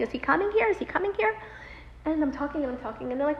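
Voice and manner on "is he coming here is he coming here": higher-pitched repeated question; retold worried wife pressing for news; anxious pleading. Anxiously asking about her husband.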